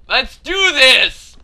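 loud, slow rallying cry; psyched-up shout. Real, not acted. Player rallying before another attempt, determined shout. Psyching self up, louder second take.

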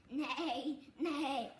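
horse neigh. Shown as a demonstration.

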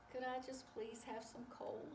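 soft, whispered little request; whispered plea. Acted. Train asks for coal at pie contest, whispered plea. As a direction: ask meekly in a whisper.

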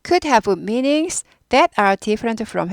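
slow, careful reading of the sentence; slow model reading. Shown as a demonstration. Teacher reading the sentence slowly to students. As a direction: spell it out slowly for learners. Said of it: "teacher models sentence for class".

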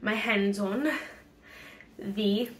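breathless mid-sentence; talking short of breath. Real, not acted. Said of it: "why am I out of breath?".

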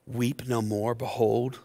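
hushed elder's voice. Retold or imitated. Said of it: "one of the elders said to me".

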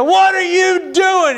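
can't believe the donkey stopped; exasperated. Retold or imitated. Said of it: "he's thinking".

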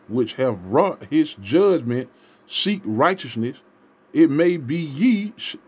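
slow, solemn reading of the verse; slow scripture reading. Acted. Preacher reading Zephaniah to his listeners, slow and solemn. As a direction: read it as holy writ, slowly.

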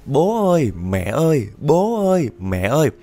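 put-on a small boy sobbing out for his parents; crying child calling. Little boy crying for his parents at night, high loud wail. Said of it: "Nó khóc lớn lắm luôn á".

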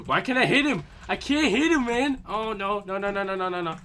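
high, loud frantic cries; panicked yelling. Real, not acted. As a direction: yell in rising panic. Losing a fight in game.

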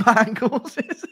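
high, slow words breaking into laughter; helpless laughter. Real, not acted. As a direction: crack up mid-sentence. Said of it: "Stop making me laugh".

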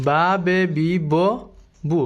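বা, বে, বি, ব, বু spoken one by one, each syllable clear and separate; teacher modelling বা, বে, বি, ব, বু for students; syllable drill. Shown as a demonstration. Teacher models syllables to learners, crisp drill. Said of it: "সবগুলো উচ্চারণ করতে পারবেন".

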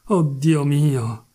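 drawn-out, very slow cry of dismay; a very slow, pained oh my God; anguished sigh. Acted. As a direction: stretch each word out in anguish. Anguished outburst at own thought.

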